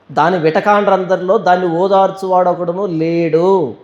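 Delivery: measured, declaimed lament verses; scripture recitation. Acted. Preacher recites the lament over the lonely city, scripture recitation. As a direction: recite each clause with a stretched ending.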